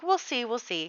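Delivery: a hint of a noncommittal king humouring a petitioner; placating. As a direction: soothe him without promising anything. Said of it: "placates him".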